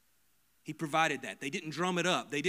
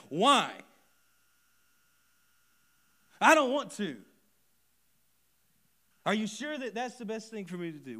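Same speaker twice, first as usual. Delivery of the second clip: whiny son; 9 semitones higher, 11 dB louder than usual. Retold or imitated. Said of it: "and the son said".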